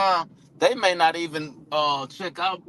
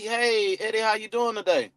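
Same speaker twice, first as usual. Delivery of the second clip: bright, quick and higher; upbeat greeting; 5 semitones higher than usual. Shown as a demonstration. Caller greeting a lead with upbeat energy. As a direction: greet him like an old friend. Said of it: "We hit 'em with that".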